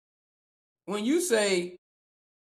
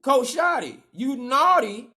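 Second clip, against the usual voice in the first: louder, teasing scold; mock scolding; 4 semitones higher, 5 dB louder, slower than usual. Host scolding the coach as Santa would, louder playful scold. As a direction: wag a finger at him playfully.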